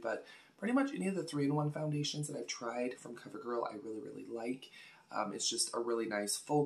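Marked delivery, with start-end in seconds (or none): 2.3-4.7 whispered. Real, not acted. Gushing aside about foundations.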